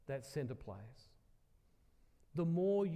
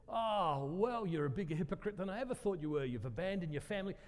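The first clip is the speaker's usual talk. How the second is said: raised, indignant imitation of an accuser; retold angry outburst; 4 semitones higher, 3 dB louder than usual. Woman accuses him of abandoning his family, angry outburst. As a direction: burst out higher and louder on "Oh", then ease slightly. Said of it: "she went nuts for ages".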